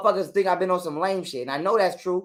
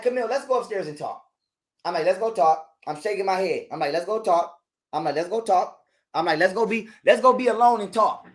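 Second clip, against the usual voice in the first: calm coaxing. Shown as a demonstration. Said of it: "This how slow I was walking".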